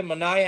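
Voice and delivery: "Manaea" said muh-NY-uh; alternate name pronunciation. Shown as a demonstration. Host unsure of pitcher's name, "Manaea" as muh-NY-uh. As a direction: say "Manaea" with an EYE in the middle. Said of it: "however you say his name".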